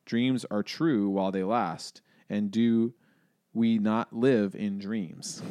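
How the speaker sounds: slow, recited poetic line; slow poetic recitation; quoting a poem. Shown as a demonstration. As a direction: savour the words like reading verse. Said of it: "Tennyson put it well".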